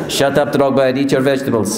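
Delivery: lightly imitated scolding manager; mock-stern manager telling off a player; Jose Mourinho. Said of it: "I would do Jose Mourinho".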